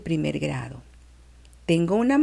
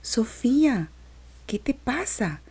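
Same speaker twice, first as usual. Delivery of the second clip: tender voice; 6 semitones higher than usual. A narrator's reading. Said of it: "una voz muy cariñosa".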